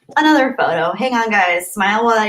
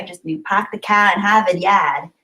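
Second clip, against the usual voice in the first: put-on a light Boston accent, dropping the r's; lightly voiced Massachusetts accent in "pack the cat" and "yad". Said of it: "I can never do a Massachusetts accent".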